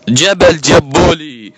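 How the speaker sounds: sing-song mocking call, very slow; drawn-out taunt. Real, not acted. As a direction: stretch the name slowly, teasing. (نداء ساخر ممطوط ببطء)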